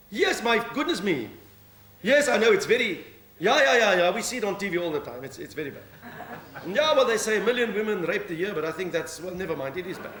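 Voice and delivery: lightly voiced police sergeant answering the phone; policewoman on the phone. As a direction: play the duty sergeant taking a call. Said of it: "Sergeant Minnie".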